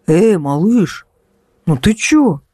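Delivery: slow, whiny pleading. A narrator's reading. Danil guilt-tripping his ex on the phone, pleading. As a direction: try to make her pity you. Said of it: "пытаясь разжалобить девушку".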